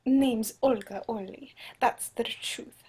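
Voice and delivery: put-on tentative Russian accent; Olga Orly. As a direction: introduce yourself in an uncertain Russian accent. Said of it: "Russian accent".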